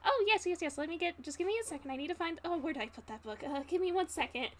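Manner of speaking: flustered innkeeper. Acted. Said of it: "an N P C cameo".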